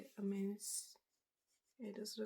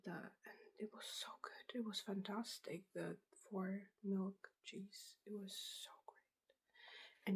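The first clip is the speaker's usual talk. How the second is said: ASMR whisper. Real, not acted. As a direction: breathe the words out gently.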